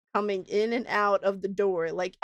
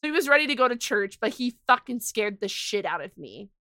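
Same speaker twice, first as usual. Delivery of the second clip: ordinary delivery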